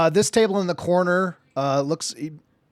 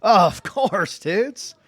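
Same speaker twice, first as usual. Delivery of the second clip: barkeep voice; 5 semitones higher, slower than usual. Acted. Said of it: "try not to do the barkeep's voice".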